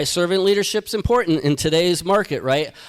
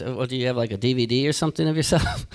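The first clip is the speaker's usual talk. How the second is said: lower, softer retold question; lightly voiced pastor; 7 semitones lower, 4 dB quieter, faster than usual. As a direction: lightly imitate a pastor asking, low and quiet. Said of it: "talking to a pastor".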